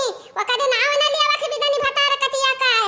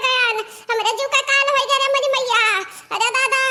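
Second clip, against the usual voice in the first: put-on wailing sick old mother. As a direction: moan like a feverish mother-in-law. (बुखार में कराहती सास)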